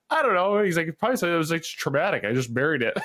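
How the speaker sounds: high, plaintive imitation of a dad about to cry; mock-tearful dad begging the kids to stop prying; whiny dad. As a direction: play the dad pleading to stop the questions.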